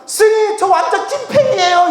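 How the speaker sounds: very high, gushing mock squeal; hammed-up astonished fan confession; starstruck fan. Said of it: "뒤로 나자빠지면서". (기절할 듯 호들갑 떠는 팬 목소리)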